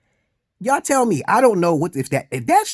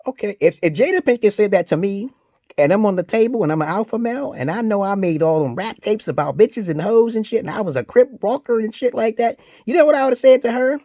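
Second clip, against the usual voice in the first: demo script; 10 semitones higher, 7 dB louder than usual. Shown as a demonstration. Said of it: "start saying".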